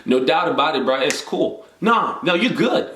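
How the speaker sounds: hint of laid-back African American city slang; lightly put-on street-casual delivery; casual city talk. Shown as a demonstration. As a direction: loosen up like chatting with city friends. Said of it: "speaking to some of my city friends".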